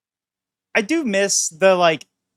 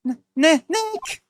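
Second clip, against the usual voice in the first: high panicked call; 9 semitones higher, slower than usual. Acted. Maya calls out panicked.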